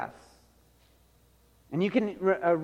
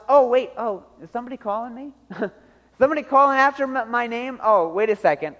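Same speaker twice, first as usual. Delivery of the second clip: higher, startled mock voice; absent-minded, hammed-up surprise; distracted god; 4 semitones higher, faster than usual. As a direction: play someone caught daydreaming, suddenly half-hearing a call. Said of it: "either your God is just kinda".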